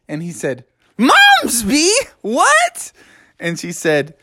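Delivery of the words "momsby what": high, astonished questioning; startled disbelief. A narrator's reading. Froggy hears the girl's name, startled disbelief. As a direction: blurt it high in surprise.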